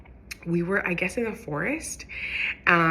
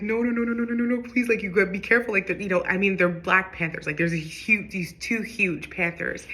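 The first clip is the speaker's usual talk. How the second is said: rapid run of pleading noes, mock alarm; retold worried mother's warning; freaking out; 2 semitones higher than usual. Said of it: "And she's freaking out".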